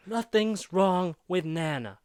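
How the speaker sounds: Hopper. Retold or imitated. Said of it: "he threatens Mike 'cause says".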